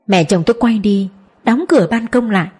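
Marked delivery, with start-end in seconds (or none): none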